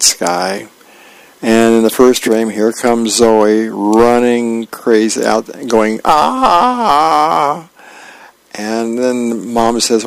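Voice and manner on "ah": drawn-out higher "aah" at speaking volume; half-hearted cartoon kid scream; mock scream. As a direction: run in going "aaah", held long. Zoe runs in screaming, acted.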